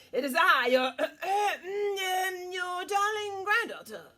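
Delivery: a put-on high voice hiding a growl; wolf in a high voice. A narrator's reading. Wolf pretending to be the granddaughter at Granny's door, mock high voice. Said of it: "said the wolf in a high voice".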